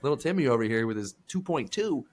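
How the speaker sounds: high, laughing justification; laughing, mock-innocent to the lady; laughing retelling. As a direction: giggle through the excuse. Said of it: "I was like".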